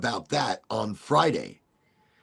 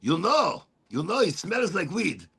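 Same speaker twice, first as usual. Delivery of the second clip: uncle tattling; 4 semitones higher, 6 dB louder, slower than usual. Retold or imitated. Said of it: "He goes".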